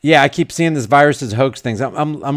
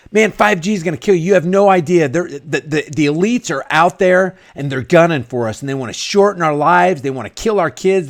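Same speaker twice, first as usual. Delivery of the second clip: higher, faster, mock-alarmed rant; mocking conspiracy nut; 4 semitones higher than usual. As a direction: ham up a paranoid friend warning about the elites. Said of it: "They're like".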